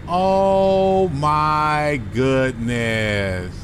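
slow drawn-out exasperation; exasperated groan. Real, not acted. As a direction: drag the words out in dismay. Reacting to missed exit.

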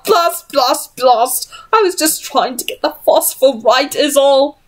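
lightly voiced frantic inventor; flustered Henry.

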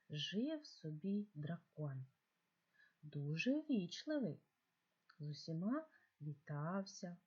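slow, storytelling voice with lively greetings; reading to children. Acted. Teacher reading a polite dragon tale to pupils, slow storytelling. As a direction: read it like a bedtime tale for kids.

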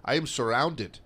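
tentative attempt at a Russian accent. Podcaster quoting a surrounded soldier radioing his superior, attempted Russian accent. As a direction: put on a rough Russian accent. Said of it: "gonna do it in a Russian accent".

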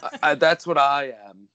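hammed-up Russian accent; Malkovich. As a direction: imitate an actor's bad Russian accent. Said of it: "just dog shit Russian accent".

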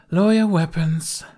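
high, loud command to the crew; called order. Acted. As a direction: shout it down to the deck. Hostage relays order to crew.

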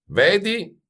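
high, rising "see?"; satisfied yet disappointed. A narrator's reading. Master to the silent youth, satisfied yet disappointed. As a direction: score the point, a touch let down. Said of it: "disse Baldini soddisfatto e deluso".

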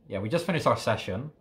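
words pushed out between breaths. Real, not acted. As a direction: still catching breath. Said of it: "I'm a little bit out of breath".

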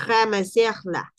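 "ramasser la" de una sola vez, despacio, sin pausa; ramasser là ligado. Shown as a demonstration. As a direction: une "ramasser" y "la" lentamente. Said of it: "No hay pausa, de una sola vez". (enlace en "ramasser la")

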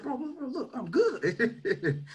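reassuring through a laugh, drawn out. Real, not acted. Telling his friend in the van he is fine, laughing. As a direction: brush it off with a laugh.

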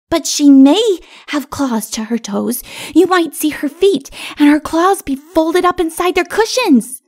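put-on high, loud, insistent child voice; little child arguing. A narrator's reading. Little one arguing with king, insistent child. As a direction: argue the point like an eager child.

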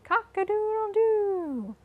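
high crowing cock-a-doodle-doo; rooster crowing. Retold or imitated. Naming the animals with the kids, a high rooster crow. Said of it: "rooster saying".

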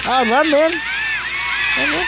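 real panicked urging; urgent yell. Real, not acted. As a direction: yell a warning at the screen. Urging character to flee.

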